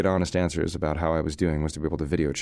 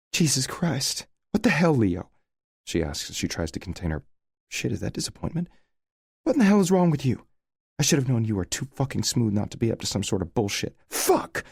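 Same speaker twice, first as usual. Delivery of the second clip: unload on him, outraged; furious scream; 7 semitones higher than usual. A narrator's reading. Sarah catching Leo with another woman, furious scream. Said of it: "she screams".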